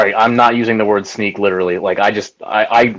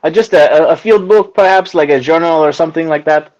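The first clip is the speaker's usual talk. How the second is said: put-on French accent; 3 semitones higher than usual.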